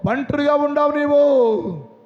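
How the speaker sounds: preacher half-crying; tearful preaching. Acted. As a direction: voice catching on a sob as he preaches. Preacher laments fallen believer.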